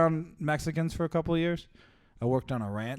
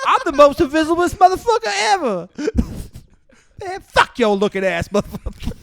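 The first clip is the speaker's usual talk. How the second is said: loud, high put-on Black accent; 12 semitones higher, 10 dB louder than usual. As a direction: shout it in a hammed-up Black voice. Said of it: "how far my black voice carries".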